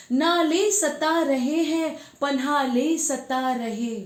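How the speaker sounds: slow, lilting, emphatic poem delivery; poetry recitation. Acted. Woman reciting a poem about Ganga to viewers, declaimed. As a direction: recite verse with drawn-out words and swelling refrains.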